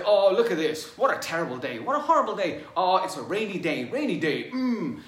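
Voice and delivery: loud, exaggerated groan about the gloomy day; mock moaning about weather. Speaker imitating people who complain about a cloudy sky, loud and whiny. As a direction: whine at the clouds like it's ruined. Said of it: "they say".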